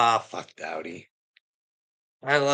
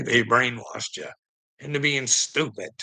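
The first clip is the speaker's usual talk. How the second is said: ordinary talk, nothing marked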